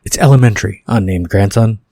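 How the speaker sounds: mock British accent. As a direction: put on a half-committed British accent. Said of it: "Doing a British accent now".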